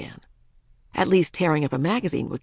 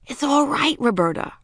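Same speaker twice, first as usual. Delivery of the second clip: high-pitched attempt at comfort; soothing child's voice, a little strained; trying to soothe; 8 semitones higher than usual. A narrator's reading. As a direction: reassure a frightened baby, pitched up. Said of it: "Ramona tried to sound soothing".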